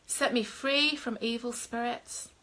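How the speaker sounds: slow, measured prayer with long pauses; leading a prayer. Acted. Minister leads online viewers in a salvation prayer, slow and solemn. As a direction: pray it line by line for them to repeat.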